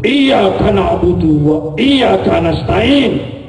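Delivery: put-on slow, demonstrative recitation in Arabic accent; correct Arabic accent. Arab guest shows kiai the right way, Arabic-accented recitation. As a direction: model the fluent Arabic pronunciation with long vowels. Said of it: "Yang betul bagaimana?".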